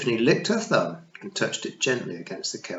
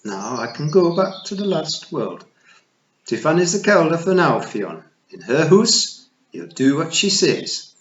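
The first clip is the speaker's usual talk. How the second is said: high, loud tiny pixie matriarch; a tiny Scots fairy queen, pitched high; Kelda voice; 7 semitones higher, 8 dB louder than usual. Acted. Kelda commands Fionn.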